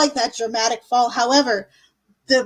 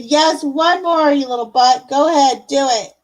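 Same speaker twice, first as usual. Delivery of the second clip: loving exasperation; 2 semitones higher, 3 dB louder than usual. Real, not acted. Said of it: "you're lucky I love you so stinking much".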